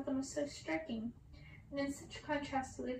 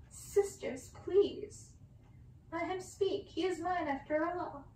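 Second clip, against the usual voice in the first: calming plea; 5 semitones higher, slower than usual. Acted. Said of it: "trying to calm her sisters".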